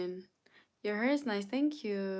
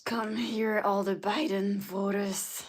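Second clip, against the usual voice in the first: raised-voice mock calling out; mock summons; 4 dB louder than usual. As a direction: call the culprits over, playfully bossy. Repeats the summons, now calling out.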